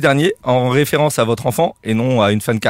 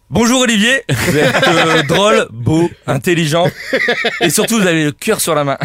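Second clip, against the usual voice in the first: laughing; 3 semitones higher than usual. Real, not acted. Repeated flattering greeting opener.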